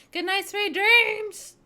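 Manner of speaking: very high, slow, loud sweet goodnight; cutesy sing-song. Acted. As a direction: coo it like a lullaby. Cutesy sign-off to chat.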